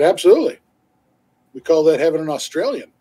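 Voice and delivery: put-on a light Australian accent, punchy start. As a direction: retell the guy's line in a mild Australian accent. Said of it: "when they're done in an Australian accent".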